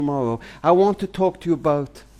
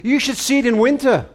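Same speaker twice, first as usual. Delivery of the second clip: grumpy fisherman barking it back, higher; mock bark; 6 semitones higher than usual. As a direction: snap it back like a tired, cross old fisherman. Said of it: "he barked back at me".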